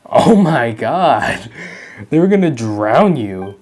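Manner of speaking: shocked. Real, not acted. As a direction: let the shock land on every word.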